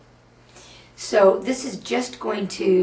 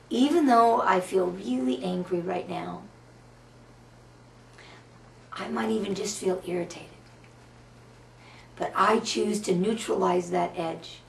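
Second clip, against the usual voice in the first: spoken tapping script with long pauses between phrases; tapping affirmation. Acted. Guiding viewers through EFT tapping, steady affirmation voice. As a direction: recite each setup phrase as the viewer repeats along.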